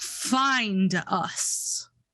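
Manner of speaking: very low, rumbling, huge beast-like dragon voice. Narrating to the listener amid beating wings, a voice calls: deep, rumbly voice. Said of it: "you hear in a deep, rumbly voice".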